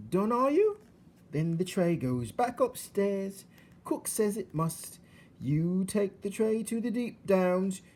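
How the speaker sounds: put-on high, loud, slow simple girl; Mig's loud voice. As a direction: recite instructions bluntly.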